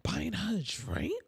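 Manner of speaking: hushed imitated gossip; gossipy whisper. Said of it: "they're probably like".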